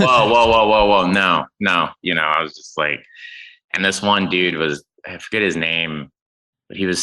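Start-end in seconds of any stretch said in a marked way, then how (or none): 0.0-1.9 louder warning whoas, stopping someone; playfully bust a guest with food; hammed-up stern usher; mock usher scolding. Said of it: "fun to be like".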